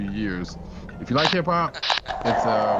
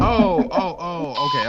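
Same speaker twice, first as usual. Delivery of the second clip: surprised; 11 semitones higher, 5 dB louder than usual. Real, not acted. Realizes friend is beside him.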